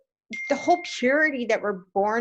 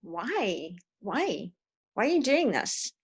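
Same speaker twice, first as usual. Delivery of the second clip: pleading why; 4 dB quieter than usual. Retold or imitated. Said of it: "it's like".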